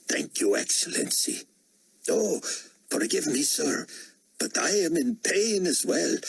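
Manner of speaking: high, deferential official's voice; pained subordinate. Acted. Security director apologizing to the potentate, high and pained. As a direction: apologize to a superior through pain.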